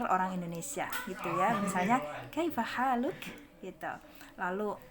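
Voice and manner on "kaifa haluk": "Kaifa haluk" higher, with thin smiling vowels; gentle, small-voiced reading. Shown as a demonstration. Teacher models a friendly Indonesian-style greeting, gentle and smiling. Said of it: "bacanya lembut dan suaranya kecil".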